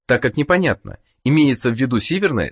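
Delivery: normal talking voice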